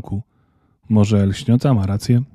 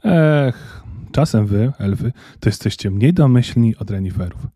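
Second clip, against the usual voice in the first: sighing. Acted. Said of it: "westchnął Rudolf".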